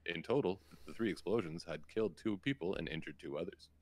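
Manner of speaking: steady newsreader delivery; news reporter voice. Acted. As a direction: read it like an evening news anchor. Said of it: "I'm gonna stop the news reporter voice".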